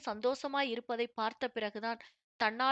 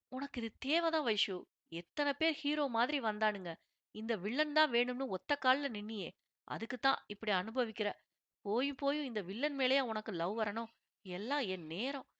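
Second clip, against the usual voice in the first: mild grumbling lament. Acted. Wife lying turned away, grumbling about her husband, mild lament. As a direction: grumble to yourself half-joking. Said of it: "என அவள் புலம்ப".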